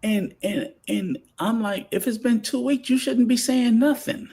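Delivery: rising exasperation about two-week flings; worked-up rant. Real, not acted. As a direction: hammer the point home, exasperated. Heated rant continues.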